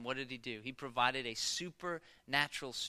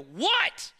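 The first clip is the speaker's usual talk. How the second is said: loud, high irritated shout; angry dad; 12 semitones higher, 9 dB louder than usual. Retold or imitated. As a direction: snap back at a yelling child. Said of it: "I'm angry".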